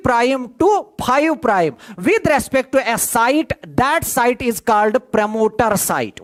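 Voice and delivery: slow, spelled-out dictation pace. Shown as a demonstration. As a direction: give the definition word by word for notes. Teacher dictates definition slowly.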